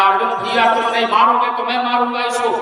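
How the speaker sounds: insistent Bhimsen. Acted. Bhimsen to Arjun, demanding the sinner be killed, forceful. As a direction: push hard, a hint of a fierce brother.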